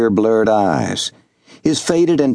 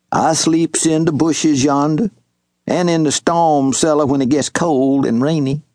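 higher, lightly voiced old Southern servant; old servant calling out; 3 semitones higher than usual. Old servant Wash hailing young Master Jubal, lightly voiced. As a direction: call across the clearing in a gentle old man's voice.

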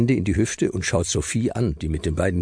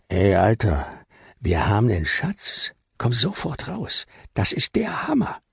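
put-on higher, eager kid voice bursting with news; a cool kid blurting out big news; excited boy Abdul; 4 semitones higher than usual. Abdul tells Luis about the treasure, eager and high.

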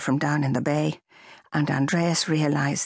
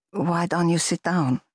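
kind. Acted. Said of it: "she said kindly".

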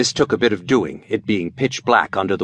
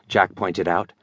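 ordinary delivery, nothing marked

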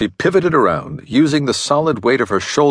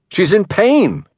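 high and loud, voice raised; upset exclamation; 11 semitones higher, 3 dB louder, slower than usual. A narrator's reading. Husband raises his voice at the detective, high and loud. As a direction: demand they see her. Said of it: "he exclaimed".

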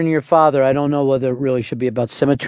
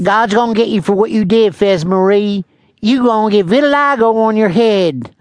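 higher, louder scolding father; impression of Fez's dad; 5 semitones higher, 4 dB louder than usual. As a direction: pronounce a loud, high-pitched curse on your child. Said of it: "that's the perfect impression".

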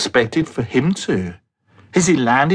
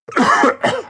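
throat-clearing cough. Acted. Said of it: "Ricky coughed".

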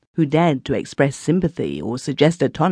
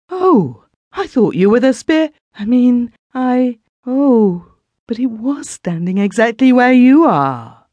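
much higher, louder, flustered and stammering; frightened exclamation; 10 semitones higher, 5 dB louder than usual. A narrator's reading. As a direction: blurt it out, still shaken by the apparition. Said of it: "she exclaimed".

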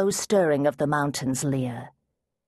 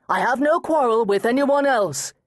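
loud cry; 7 semitones higher, 4 dB louder than usual. Acted. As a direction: call into the broken cave. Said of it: "he cried".

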